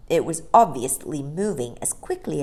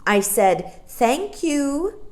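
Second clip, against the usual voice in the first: firmer, louder Thank you; a little louder; 10 semitones higher, 4 dB louder, much slower than usual. Acted. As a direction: repeat Thank you more insistently. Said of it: "said Mary Poppins a little louder".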